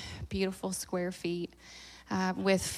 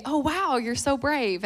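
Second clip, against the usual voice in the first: higher-pitched imitation of impressed onlookers; mock admiration; 5 semitones higher, slower than usual. People reacting to the family living in an RV, mock admiration. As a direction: put on a lilting, admiring reaction. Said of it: "Some people say".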